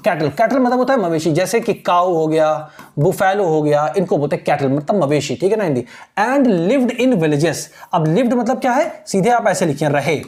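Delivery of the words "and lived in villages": very slow, word by word reading of the text; slow dictation reading. Shown as a demonstration. Teacher reading the textbook line aloud slowly to students. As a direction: read it out slowly for students to follow.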